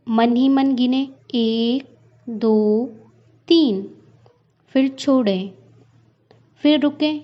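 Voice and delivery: slow, drawn-out breathing cues with long silences; guided meditation. Acted. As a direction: count the breath slowly, letting each number stand alone. Leads timed breathing exercise.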